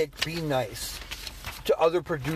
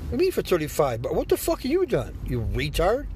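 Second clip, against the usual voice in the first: mock outraged reply; 2 semitones higher than usual. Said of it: "that's what I fucking feel like saying".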